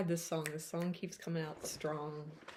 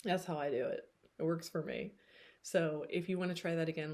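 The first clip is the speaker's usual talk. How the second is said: ordinary talk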